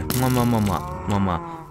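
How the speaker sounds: playful spoken kisses; shower someone with pretend kisses; kissing noises. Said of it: "I give you kisses".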